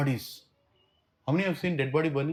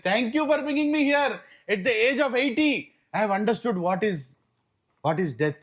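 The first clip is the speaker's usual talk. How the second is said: much higher and louder, voice rising with emotion; overwhelmed gratitude; 8 semitones higher, 4 dB louder than usual. Acted. Old man thanking the pujari at the burning ghat, overwhelmed and loud. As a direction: blurt out thanks as the truth finally hits you.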